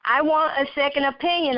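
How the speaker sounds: pleading, pitched high and quick; begging the doctor for a second opinion, fast and high; mother pleading with the doctor, voice pitched high; crying out. Acted. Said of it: "I cried".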